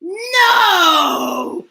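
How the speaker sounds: put-on drawn-out childish wail of protest; insistent protest. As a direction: stretch it out, stamping your foot. Mouse insists, upset.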